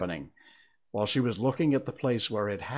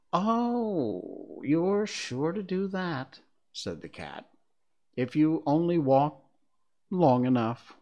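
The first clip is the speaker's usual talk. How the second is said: slow, teasing cat voice; amused cat, taking its time; snooty bored cat; 5 semitones higher, slower than usual. Acted. The Cheshire Cat voiced in story.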